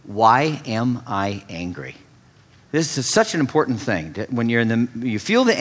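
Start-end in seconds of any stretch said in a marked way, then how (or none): 0.0-2.0 slow, low, quiet asking; calm self-question. Shown as a demonstration. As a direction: pause and ask yourself gently. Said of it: "the first and best question is".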